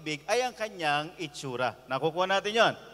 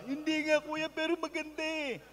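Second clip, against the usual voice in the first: lightly voiced, higher pleading young man; lovesick young man; 7 semitones higher, 5 dB quieter than usual. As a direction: plead like a heartbroken younger brother. (bahagyang mataas, nagmamakaawang binata)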